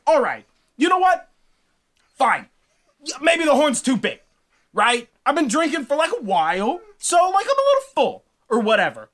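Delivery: a proud god bluffing past his failure; flustered Thor. Acted. Thor making excuses, voiced.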